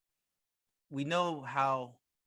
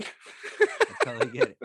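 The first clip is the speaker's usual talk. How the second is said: squeaky falsetto, much higher and louder; mock high squeak; 9 dB louder than usual. Teasing the interruption in a high squeaky voice.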